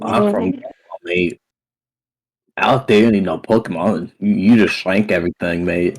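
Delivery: a hint of a British accent; lightly put-on British accent. Player voices his character in a light British accent. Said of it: "I have to do a British accent again".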